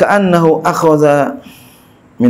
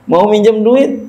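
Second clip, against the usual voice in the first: slow, higher and laughing; chuckling, drawn-out marvel at the poor president; amused disbelief; 6 semitones higher than usual. Acted. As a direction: savour the irony through a laugh.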